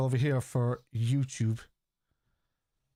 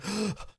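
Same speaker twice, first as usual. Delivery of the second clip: mock shocked gasp; 6 semitones higher, 4 dB quieter than usual. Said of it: "he just went".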